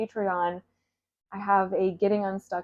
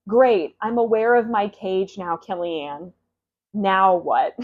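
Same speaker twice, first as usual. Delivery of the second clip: sarcastic retort; 7 dB louder than usual. Pretend.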